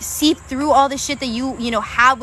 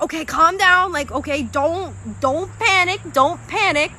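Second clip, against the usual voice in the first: higher, hurried reassurance from the guides; urgent spirit guides; 3 semitones higher than usual. Pretend. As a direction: hush a panicking friend, a bit higher. Voicing spirit guides urging calm.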